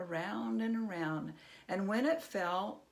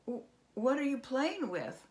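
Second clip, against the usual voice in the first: high, stammering goblin voice; 7 semitones higher than usual. Acted.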